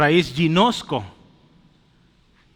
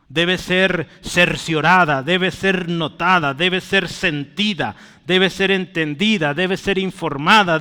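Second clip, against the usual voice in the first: preaching. Acted. Preaching list of meanings.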